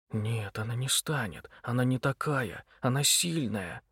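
soft, slowed private whisper; whispering to himself. Acted. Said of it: "зашептал сам себе Митя". (шёпот про себя)

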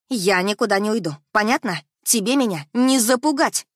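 loud defiant yell; defiant shout. Acted. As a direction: stand your ground and shout. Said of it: "Закричала".

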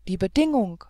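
mild cry of dismay; startled cry. Acted. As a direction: call it out in shock. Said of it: "rief Selim".

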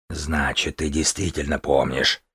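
quiet deadly threat; drake. Acted. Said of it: "В голосе дракона зазвучала смертельная угроза".

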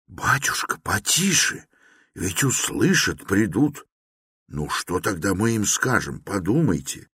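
hushed, frightened pleading; terrified whisper. A narrator's reading. Porfiry hushing Raskolnikov in fear, whispering. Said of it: "прошептал в ужасе".

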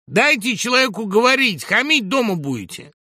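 high, loud scolding; indignant shout. A narrator's reading. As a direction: shout down the rude hecklers. Crowd member scolds the hecklers. (возмущённый крик)

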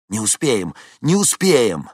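loud, rising alarmed repeat; panicked. A narrator's reading. Vincent fears they won't make it, panicked. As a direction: fear they are too late.

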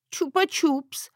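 sniffling. Acted. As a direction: hold back tears, pitiful. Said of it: "всхлипнула я".

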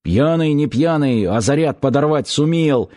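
lightly voiced angry sailor; growling through teeth. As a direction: grind it out through clenched teeth. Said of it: "стиснув зубы, прорычал".

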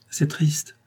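plus aigu, une légère voix d'enfant; voix enfantine. A narrator's reading. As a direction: une pointe de voix de petite fille. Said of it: "de sa voix enfantine". (Marguerite parle à André d'une voix un peu enfantine)

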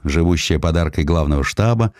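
ordinary delivery

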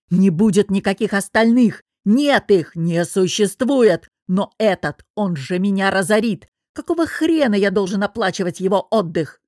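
loud angry tirade; furious boss. Acted. Boss yells accusations down the phone, loudly.

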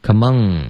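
"Come on" closing on ng; back nasal error. Shown as a demonstration. Teacher copying the student's repeated error, back nasal. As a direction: imitate the learner's "Come on" as "come-ong". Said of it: "又，又后鼻音了".

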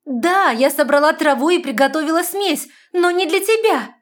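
high, loud desperate cry; fairy shouting at the man. A narrator's reading. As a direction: shout the confession. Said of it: "закричала фея".

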